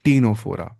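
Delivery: put-on Ctenophora pronounced "teenofora"; silent C. Shown as a demonstration. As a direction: model Ctenophora starting straight on the T. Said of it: "क्या पढ़ना है?".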